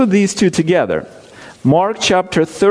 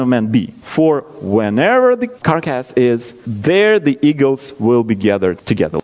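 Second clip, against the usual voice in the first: scripture reading. Acted. Preacher reading Matthew to his congregation, measured. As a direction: read the verses steadily, with weight.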